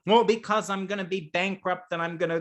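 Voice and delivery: panicky player. Retold or imitated.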